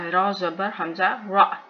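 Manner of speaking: final रा cut short with a glottal stop; hamza jerk. Shown as a demonstration. Teacher spelling for learners, रा ending in a jerk. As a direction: catch the breath abruptly after रा. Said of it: "यहाँ पे झटका".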